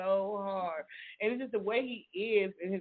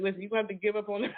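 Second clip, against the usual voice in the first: mock scolding; faster than usual. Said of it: "Amber and Kim said".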